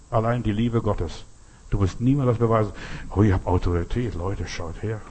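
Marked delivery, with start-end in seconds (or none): 3.2-5.0 mock boastful show-off. Mocking a show-off's boast.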